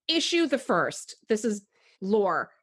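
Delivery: slow, stiff pronouncement; a lightly voiced poised fifteen-year-old; mock formal teen. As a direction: announce it like a tiny officer. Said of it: "fifteen-year-olds do you know that are like".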